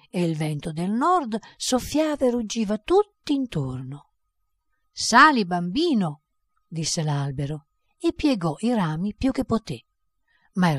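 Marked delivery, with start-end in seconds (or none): 4.9-6.2 gentle tree voice calling out; talking tree. Acted. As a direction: coax the child up, lightly voiced tree. Tree calls to crying child.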